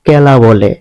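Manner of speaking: খেলা said as কেলা, kh turned to plain k; Netrokona dialect pronunciation. Shown as a demonstration. Teacher showing the Netrokona kh-to-k shift in কেলা. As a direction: say কেলা with an unaspirated k. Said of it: "ক উচ্চারণ করা হয়".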